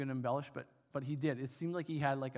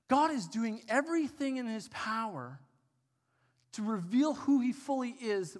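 higher, louder, building preacher's proclamation; preaching loud; 7 semitones higher, 6 dB louder than usual. Real, not acted. Preacher proclaims to the congregation, loud and rising. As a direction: drive the refrain home with full force. Refrain repeated, building sermon.

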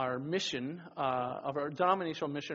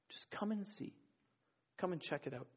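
soft whisper; 10 dB quieter than usual. Acted. Jesus's invitation voiced softly.

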